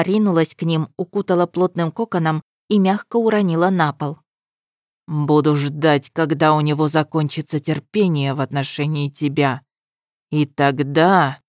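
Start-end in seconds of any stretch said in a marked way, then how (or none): 5.1-11.4 menacing. Acted. Destin threatens Ahmar.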